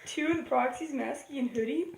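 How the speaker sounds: hushed, spooky storytelling; haunting voice. Real, not acted. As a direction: tell a ghost story quietly. Telling horror story at night hushed.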